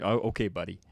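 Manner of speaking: low, dismissive "Oh, okay, buddy."; beef-starting buddy. Shown as a demonstration. Showing how buddy starts beef, snide tone. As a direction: say "buddy" like you're picking a fight. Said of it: "you can start some beef".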